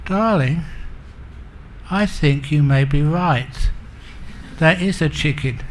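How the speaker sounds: calm, tender acted concession; gently conceding. Husband gives in to tearful wife, gentle calm voice. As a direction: give in gently after the shouting. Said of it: "squeezed her hand gently and said".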